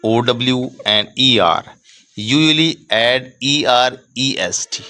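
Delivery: slow, word-by-word rule reading; measured dictation pace. Shown as a demonstration. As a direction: read it out slowly for students to copy. Teacher dictates rule slowly.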